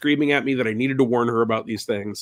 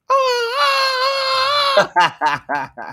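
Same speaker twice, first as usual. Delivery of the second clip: hammed-up retold screaming; a wife's startled screams, played for laughs; imitated scream. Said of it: "she started to scream".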